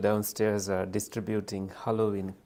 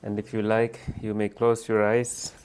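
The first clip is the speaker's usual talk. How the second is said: guided meditation. Real, not acted. Leader settling a group to meditate, unhurried guiding voice. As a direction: guide them gently into stillness, phrase by phrase.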